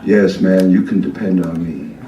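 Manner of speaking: lightly voiced eager promise, low; a hint of a man talking into a coiled receiver; mock earnest reassurance, fast at the end; homeless guy on a fake phone.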